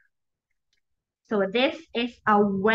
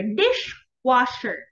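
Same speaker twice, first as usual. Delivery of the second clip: slow model word; slower than usual. Shown as a demonstration. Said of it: "Where can you hear the w sound".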